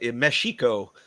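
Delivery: "Mexico" with x said as sh; soft sh Mexico. Shown as a demonstration. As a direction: say "Mexico" as meh-shee-co. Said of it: "like Portuguese or Chinese".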